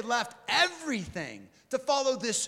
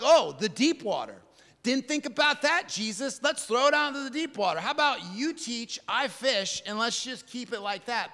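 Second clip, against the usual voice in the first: sarcastic Peter; 2 semitones higher, 3 dB louder than usual. Retold or imitated. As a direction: roll your eyes at the teacher's advice. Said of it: "I'm like".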